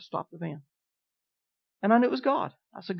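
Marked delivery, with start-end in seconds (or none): 0.0-0.6 soft, hushed command, much softer; a still small voice, barely above a breath; very quiet. Retold or imitated. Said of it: "Just very quiet".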